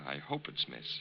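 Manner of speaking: breathed aside, flirting; flirty whisper. Acted. Con man flirting with the spinster, soft breathy aside. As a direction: hush it as a sly compliment.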